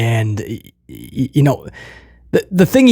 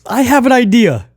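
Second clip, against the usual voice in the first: higher, slow, earnest quote; solemn imitation of Priest; sincere Priest impression; 8 semitones higher than usual. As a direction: deliver it dead serious and slow. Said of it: "He, he goes".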